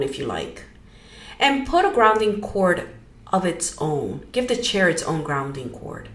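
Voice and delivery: easy guided-meditation delivery with pauses. Real, not acted. Leading listeners into grounding, guided meditation. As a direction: guide listeners gently, phrase by phrase.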